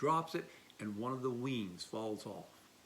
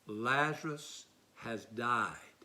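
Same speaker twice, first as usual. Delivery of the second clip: solemn; 2 semitones lower, much slower than usual. Acted. Jesus repeats it plainly.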